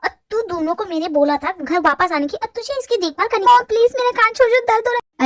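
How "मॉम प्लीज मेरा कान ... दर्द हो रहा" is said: pained plea. Acted. Begging mom, ear pulled.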